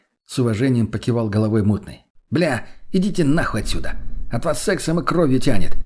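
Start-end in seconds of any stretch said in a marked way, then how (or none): 2.3-5.8 disgusted complaint. Acted. Friend grumbles at messy lovers.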